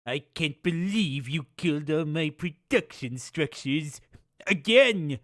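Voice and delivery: light put-on Mongol accent villain. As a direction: taunt with a mild Mongol accent. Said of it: "doing this Mongol accent".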